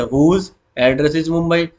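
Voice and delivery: very slow, word by word; slow dictation. Shown as a demonstration. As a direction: spell it out for students to copy. Teacher dictating SQL query.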